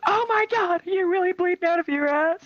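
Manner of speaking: high, incredulous squawk; shocked teacher. Retold or imitated. Teacher finally realizing he is hurt, high mock shock. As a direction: gasp it out as a stunned question.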